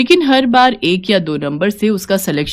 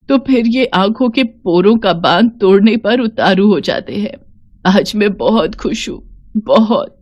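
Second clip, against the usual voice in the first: tearfully happy. Acted. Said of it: "पकड़कर इतना रोई, इतना रोई".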